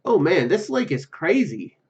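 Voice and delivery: ordinary talk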